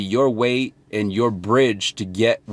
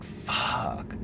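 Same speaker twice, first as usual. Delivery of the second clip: muttered curse; 12 dB quieter than usual. Retold or imitated.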